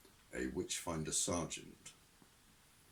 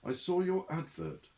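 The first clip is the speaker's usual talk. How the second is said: put-on nervous young man; 10 semitones higher, 3 dB louder than usual. Newton voiced on phone.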